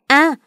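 short sharp yelp of pain; a sudden "ah" as she is pushed; cry of pain. Acted. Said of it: "em la lên".

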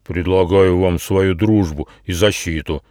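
lightly voiced big beetle; a hint of a booming rhinoceros beetle; droning. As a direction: offer it solemnly, with a slight drone. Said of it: "прогудел Атлас".

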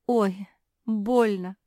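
loud, slow pained cry. A narrator's reading. Pug struck by lightning cries out, sobbing. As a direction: wail from the sudden hurt. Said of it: "Капитолина упала на бок и зарыдала".

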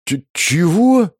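high, slow stammered disbelief; the leader gapes in disbelief; stunned what. A narrator's reading. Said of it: "вытаращился главарь". (ошарашенное «чего»)

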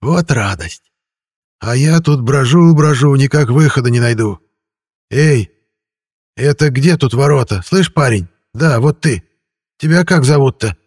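high, loud wheedling ghost; a pushy shabby spirit calling out. A narrator's reading. Ghost voiced by narrator. (голос призрака)

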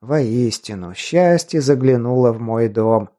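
put-on weary dull old man. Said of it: "утомлённо и тускло сказал старик".

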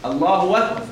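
أكبر with a thick, darkened a; wrong emphatic أكبر; heavy hamza. Shown as a demonstration. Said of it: "ولا تقول".

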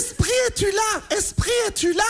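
seance medium. Acted. Calling a spirit at seance.

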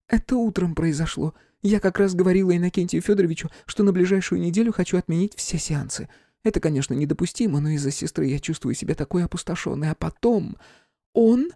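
high, weary voice; Flora, drained medium. A narrator's reading. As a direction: tell it exhausted. Flora recounting morning.

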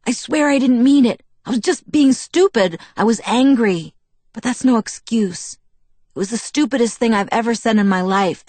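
high, loud, tumbling plea; frantic apology. A narrator's reading. Jacob begs Bella not to be mad, frantic. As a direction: beg to be forgiven, urgently. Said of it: "He tripped over the words as he hurried to get them out".

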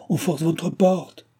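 high, drawn-out cry of alarm; narrated high call for attention. A narrator's reading. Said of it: "cria l'hôtesse".

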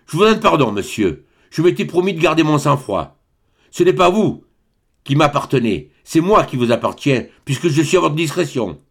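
put-on curt old baron settling a deal; lightly voiced, dry and matter-of-fact; a touch of cold business tone after the outburst; dry businesslike voice. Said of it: "de la voix sèche d'un homme qui traite une affaire".

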